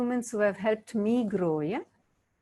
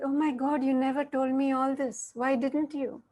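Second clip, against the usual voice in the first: higher-pitched, re-enacted amazement; astonished wife; 4 semitones higher than usual. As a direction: act out a wife's surprised realisation. Wife astonished at husband's confession.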